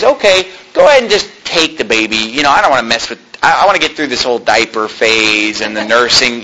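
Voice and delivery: a lightly voiced offhand princess; casual Pharaoh's daughter. Preacher voices a bored Pharaoh's daughter handing off the baby. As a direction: toss the baby off like a chore. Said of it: "She says".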